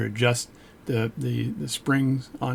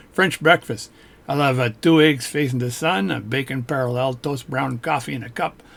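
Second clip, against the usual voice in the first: mock French. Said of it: "that's my French breakfast".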